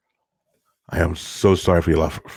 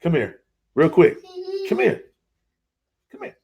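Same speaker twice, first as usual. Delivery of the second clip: calling out to son; 10 semitones higher than usual. Real, not acted.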